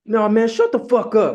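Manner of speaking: high, loud mocking comeback; mock dismissive retort. Quoting friend dismissing his correction, high loud retort. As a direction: bark it like a friend brushing him off.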